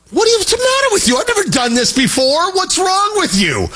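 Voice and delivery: put-on high, incredulous kid voice, slowing on the last question; exasperated son. Son stares at his frustrated dad, high and incredulous. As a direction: play the puzzled son who can't believe his dad.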